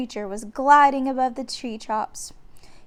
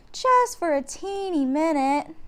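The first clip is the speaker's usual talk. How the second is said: put-on pleading girl; 5 semitones higher than usual. A narrator's reading. Annie wheedles.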